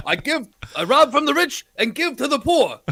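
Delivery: high, laughing through the motto; laughing mock motto. Co-host reciting Robin Hood's motto while laughing. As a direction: giggle out the line.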